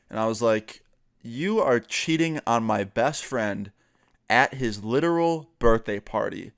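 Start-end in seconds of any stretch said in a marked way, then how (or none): 1.2-6.5 indignant accusation. Retold or imitated. Confronts friend's cheating girlfriend.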